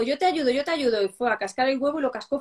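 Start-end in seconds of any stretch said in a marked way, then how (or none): 0.0-1.0 put-on eager child. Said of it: "me dice mi hijo".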